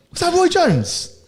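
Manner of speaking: high, slow, laughing question; laughing disbelief. Real, not acted.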